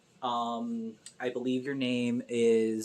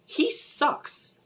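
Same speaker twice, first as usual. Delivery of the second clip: whispered aside; 13 semitones higher than usual. Real, not acted. Aside about Dan.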